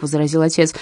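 plain reading voice

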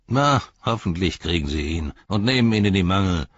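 mildly grumbled ill wish; grumbling orc tracker. Acted. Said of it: "brummte der Fährtensucher".

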